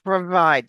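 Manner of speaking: PROVIDE modelled with a flat American R. Shown as a demonstration. Coach repeats the word for a student, flat R in PROVIDE. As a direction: say "provide" with an R that touches nothing. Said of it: "Our American R is really flat".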